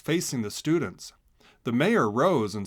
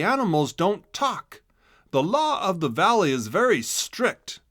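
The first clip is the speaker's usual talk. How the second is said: firm warning, louder and higher; stern mayor warning; 5 semitones higher, 4 dB louder than usual. A narrator's reading. Mayor warning the class never to talk to people, stern. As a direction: lay down the strict law.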